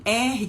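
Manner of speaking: isolated, unvoiced throat R; R demonstrated as a rough H-like breath; guttural R sound. Shown as a demonstration. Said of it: "que tem som de R".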